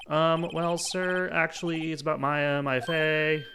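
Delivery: put-on nervous young visitor. Visitor asking lawyer about Maya, hesitant. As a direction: stammer out the request.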